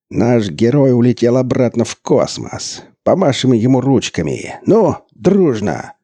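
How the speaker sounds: high, loud slow mock patter; mock announcer. A narrator's reading. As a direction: wave bye like a kids' host. Burland mocking on microphone.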